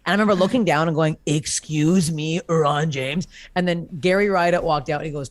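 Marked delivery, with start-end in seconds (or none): 1.3-3.3 slow, drawn-out mock indignation, no shouting; retold indignant rebuke. Woman looking down at comedian who said calm down, mock indignant. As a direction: stretch the words with understated affront. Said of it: "'cause I was screaming".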